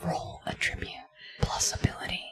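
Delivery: soft unvoiced whisper; ASMR whisper. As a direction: whisper the rules close to the mic. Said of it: "just play A S M R".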